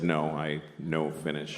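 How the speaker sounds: mock broken English. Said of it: "polite to repeat people's bad English".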